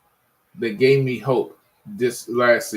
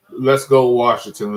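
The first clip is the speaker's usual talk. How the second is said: louder rally cry, let's go Washington; loud cheer; 6 dB louder than usual. Real, not acted. Fan rallying his Washington team, loud cheer.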